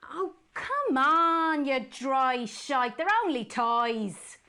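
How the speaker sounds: coaxing a friend out for drinks, loud and slow. Acted. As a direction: wheedle Jenny, stretching every word.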